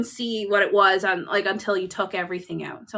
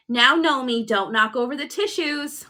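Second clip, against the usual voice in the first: daughter talking to gnome; 4 semitones higher, 4 dB louder than usual. Retold or imitated. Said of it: "She's like".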